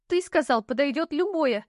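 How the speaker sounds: high indignant shriek. Acted. Heroine reminds the knight of his promise, squealing. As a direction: squeal it out, outraged. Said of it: "взвизгнула я".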